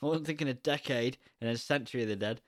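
a touch of a pleased filmmaker; George's reply. Pretend. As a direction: ham up George admitting he missed it. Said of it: "And I'd be like".

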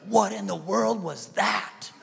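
slow, drawn-out disbelief with a laugh; astonished friend. Retold or imitated. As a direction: imitate a stunned onlooker, stretching the words. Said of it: "She's like".

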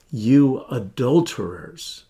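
tender. Shown as a demonstration. Pastor showing the tender way to say it. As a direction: say it gently, like to dear friends. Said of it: "said tenderly".

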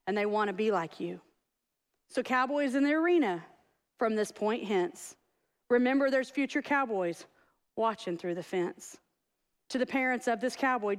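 measured verse reading with falling line ends; poem reading. Acted. Coach reads cowboy poem to congregation, measured recitation. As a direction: recite it line by line, pausing between phrases.

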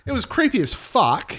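high, slow spooky voice; eerie voice. Retold or imitated. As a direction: creep them out. Mimicking eerie recording.

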